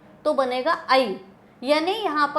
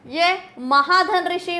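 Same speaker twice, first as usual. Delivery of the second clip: slow spelled-out parts; slower than usual. Shown as a demonstration. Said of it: "teacher spells out compound slowly".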